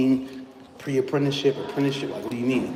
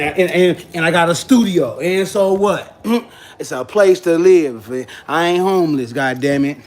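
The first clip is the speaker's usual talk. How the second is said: louder, higher defensive rant; indignant; 3 semitones higher, 5 dB louder than usual. Real, not acted. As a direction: push back hard at the critics.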